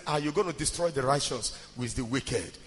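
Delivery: low, soft imitated intercession; quiet pleading. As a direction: plead softly with God. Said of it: "he kept pleading".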